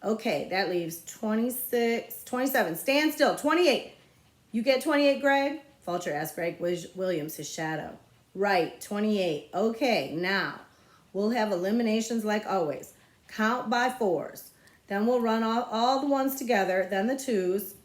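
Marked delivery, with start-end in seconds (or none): 0.0-5.6 put-on louder, higher bossy kid; bossy boy. 8.3-17.8 put-on bossy boy.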